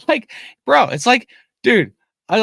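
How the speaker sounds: high, loud laughing outburst; cracking up in disbelief; real laugh breaking through the words. Real, not acted.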